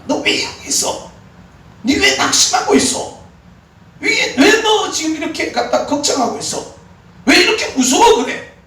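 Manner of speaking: high, loud, insistent questioning; God rebuking a frightened believer, high and loud; the Lord's rebuke. Pretend. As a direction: rebuke like God shaking someone awake. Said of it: "주님이 하시는 말씀입니다".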